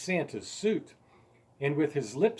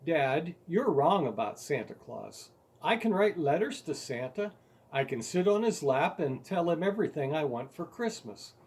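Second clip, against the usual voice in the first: mild protest; 3 semitones higher than usual. Retold or imitated. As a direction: stand up to Dad with a touch of defiance. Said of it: "so I spoke my piece, rather unpeacefully".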